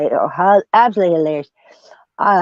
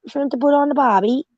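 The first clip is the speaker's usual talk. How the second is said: hammed-up host; 8 semitones higher than usual. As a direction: welcome everyone like a barbecue host. Welcoming chat guests, hosting.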